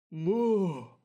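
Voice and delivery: short gruff war shout; battle cry. Acted. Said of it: "издал клич Могза".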